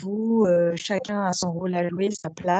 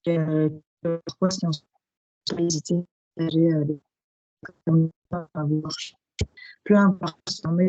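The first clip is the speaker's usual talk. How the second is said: choppy cutting-out microphone; mic cutting out. Real, not acted. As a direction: speak through a failing mic with dropouts. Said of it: "ton micro coupe, euh, on entend très mal".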